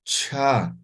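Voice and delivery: Cha popped with a glottal burst; ejective cha. Shown as a demonstration. Teacher shows explosive Cha. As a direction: clip the Cha out hard.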